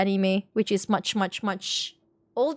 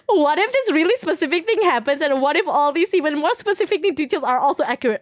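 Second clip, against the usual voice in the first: mocking speculator; 4 semitones higher than usual.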